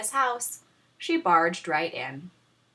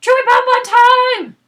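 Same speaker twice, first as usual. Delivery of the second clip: high loud mock-Norwegian shout; Norwegian dinosaur yell; 15 dB louder than usual. A narrator's reading. Dinosaurs yell a Norwegian cry, loud high shout. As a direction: bellow it like a foreign battle cry. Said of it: "their Norwegian expression for".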